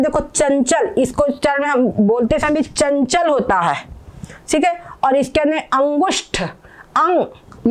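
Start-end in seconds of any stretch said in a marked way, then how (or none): 6.4-7.7 अंग held very long on the nasal ng; drawn-out अंग. Shown as a demonstration. Teacher stretching अंग to show its nasal. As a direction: stretch अंग to let the ng ring. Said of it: "इसमें अंग निकलता है".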